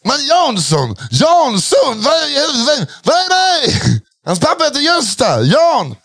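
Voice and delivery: mock-interrogate a colleague in character; Adde Malmberg impression. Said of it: "våran imitation".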